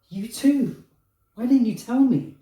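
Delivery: high, loud and incredulous; acted-out stunned outburst; retold disbelief. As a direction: blurt it out as if astonished. Disbelief at partner's confession.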